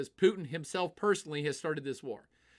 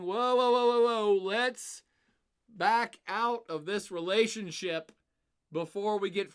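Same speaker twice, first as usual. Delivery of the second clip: louder, higher, slow drawn-out whoas; alarmed; 4 semitones higher, 4 dB louder, slower than usual. Pretend. European countries backing away from Russia, alarmed. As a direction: pull back in mock alarm.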